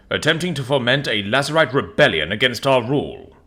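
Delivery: brisk military captain briefing the council; guard captain voice. Acted.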